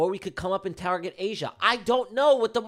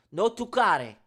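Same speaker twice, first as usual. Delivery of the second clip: Italian saying; slower than usual. Shown as a demonstration. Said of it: "That's a little Italian for you".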